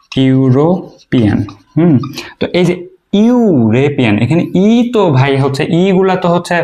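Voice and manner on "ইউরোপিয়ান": ইউরোপিয়ান said very slowly, opening on yoo; slow yoo sound. Shown as a demonstration. Teacher slowly modelling ইউরোপিয়ান for the class. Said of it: "ওর আগে এ হয়".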